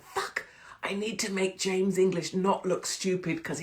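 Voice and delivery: inner panicked thought. Retold or imitated. Acting out her panicked inner thought.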